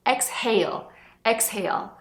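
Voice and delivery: inhale with a clear h between in and hale; h sounded. Shown as a demonstration. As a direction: breathe the h in the middle.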